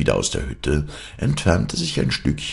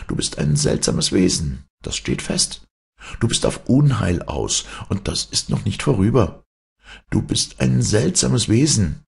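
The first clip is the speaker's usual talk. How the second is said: higher-pitched, emphatic suspicion; accusing boys; 7 semitones higher than usual. Acted. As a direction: warn the stranger in a raised character voice. Boys distrust the hero.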